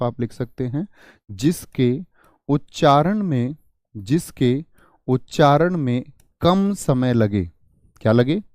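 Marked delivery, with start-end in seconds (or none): 1.3-7.5 dictation. Shown as a demonstration. Dictating definition for students to write.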